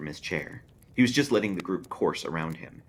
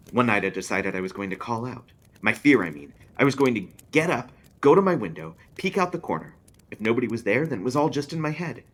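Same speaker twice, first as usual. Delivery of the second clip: louder, higher, building nerve; Drake's childhood fear; 6 semitones higher, 7 dB louder than usual. Acted. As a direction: swell up as the kid gets brave.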